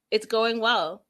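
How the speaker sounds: laughing through the words; chuckling as she says it; amused laugh. Real, not acted. Laughing while recapping.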